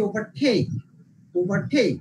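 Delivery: ওভারটেক with টেক punched and falling; stress on the verb part. Shown as a demonstration. Teacher repeating an example for students, ওভারটেক stressed on টেক. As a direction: put the weight on টেক in ওভারটেক. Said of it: "second সিলেবলে pressure দিব".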